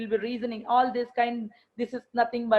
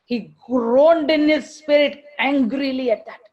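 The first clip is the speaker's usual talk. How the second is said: angry emphasis; 2 semitones higher, 7 dB louder than usual. Acted. Describing Jesus' anger.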